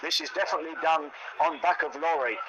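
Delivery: a deliberately bad Polish accent, lightly put on; mock Polish lorry driver, hammed-up Polish accent; playful fake Polish accent; terrible Polish accent. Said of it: "I'll do a terrible Polish accent".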